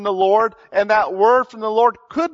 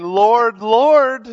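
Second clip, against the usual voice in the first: loud and higher, a worshipper calling "Lord, Lord"; fervent worship cry; 4 semitones higher, 6 dB louder than usual. Retold or imitated. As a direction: throw the voice up in praise. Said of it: "they're saying".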